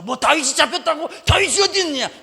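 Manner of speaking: a king bursting in, eager and loud; excited king. Acted. Philistine king rushing in, loud and eager.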